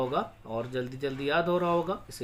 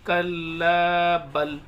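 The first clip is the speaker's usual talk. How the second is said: slow कल्ला बल then a clear stop; pause after बल; 8 dB louder, much slower than usual. Shown as a demonstration. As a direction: recite कल्ला बल and halt before राना. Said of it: "ऐसे रुक जाएंगे".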